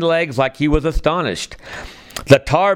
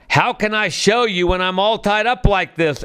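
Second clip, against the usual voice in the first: lightly voiced cocky rabbit, a touch higher; sly, teasing, hardly raised; 4 semitones higher than usual. Brer Rabbit taunting his captors, mildly cocky. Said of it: "all cocky-like".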